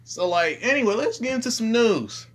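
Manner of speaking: high, bright put-on voice; character voice. Shown as a demonstration. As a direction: play the character. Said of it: "I'm just gonna talk in his voice".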